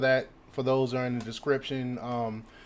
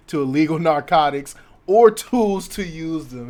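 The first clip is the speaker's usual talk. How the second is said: punchy, louder article read, breaking into a chuckle; amused news read; 2 semitones higher, 8 dB louder than usual. Acted. Commentator reads Carlson's jibe to viewers, amused news read. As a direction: read the report out, tickled by it.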